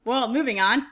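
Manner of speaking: normal talking voice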